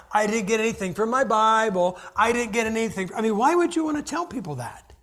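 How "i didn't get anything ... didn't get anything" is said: imitating a churchgoer's boast; mock bragging. Preacher mimicking someone bragging at church, mock boast. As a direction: brag it out, hammed up. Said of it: "and brag".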